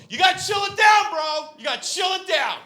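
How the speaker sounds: high, loud mock-bro shout; hammed-up white bro; whitest thing. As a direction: patronize him in a bro voice. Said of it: "I go".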